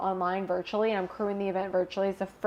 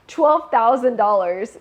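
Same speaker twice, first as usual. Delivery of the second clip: louder, laughing at the huge price; incredulous laughing repeat; 3 semitones higher, 12 dB louder, slower than usual. Real, not acted. To the host, laughing that the program cost twelve thousand dollars. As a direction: laugh it out like you can't believe the cost.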